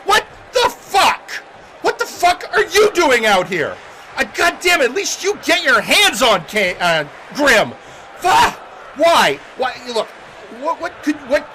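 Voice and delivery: high-pitched, incredulous angry outburst; angry wrestler. Acted. Wrestler demanding why the Sith Lord is out here, furious and incredulous. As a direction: curse and sputter in disbelief.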